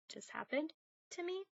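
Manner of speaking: ordinary talk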